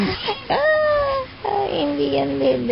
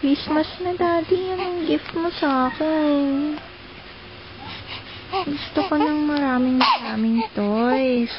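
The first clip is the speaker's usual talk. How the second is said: a lightly voiced toddler, higher and pleading; baby asking for gifts; 4 semitones higher, 3 dB quieter than usual. Mother voicing baby asking Daddy for Christmas toys, higher and pleading. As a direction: beg Daddy for toys like a small child.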